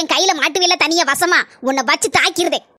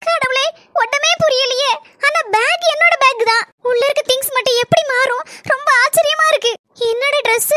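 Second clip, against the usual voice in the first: put-on a slightly higher, bewildered young girl talking to herself; worried young girl; 5 semitones higher than usual. Young girl alone with the wrong bag, lightly anxious and bewildered. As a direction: puzzle it out aloud, anxious and lost.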